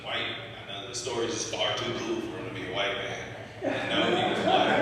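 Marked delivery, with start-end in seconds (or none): 3.7-4.8 high, cracking into a laugh. Real, not acted. Laughing at his own joke.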